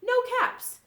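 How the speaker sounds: high, emphatic storybook dismay; dismayed discovery. A narrator's reading. Narrator to children as the peddler searches, dismayed. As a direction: stretch it out high, finding nothing there.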